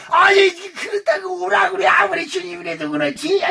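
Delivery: high, tearful mock complaint; whining protest. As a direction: complain as if on the edge of tears. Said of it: "이런단 말이에요". (울먹이듯 높은 목소리로 투정)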